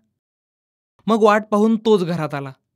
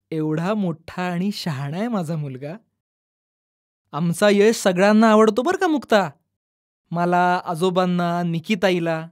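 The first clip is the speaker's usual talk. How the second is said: tender comfort; 2 semitones lower than usual. Acted. Mother comforting crying son.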